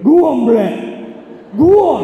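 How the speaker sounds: rising to a high loud cheer; urging on. Retold or imitated. Classmates urging Brett to have a go, cheering. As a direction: chant him up to the front.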